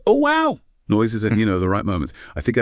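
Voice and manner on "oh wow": sharply higher, hammed-up polite wow; mock enthusiastic wow. Dutiful listener on a date, hammed-up higher "Oh, wow!". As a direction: fake delight on cue, way up high. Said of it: "I did the required, noises".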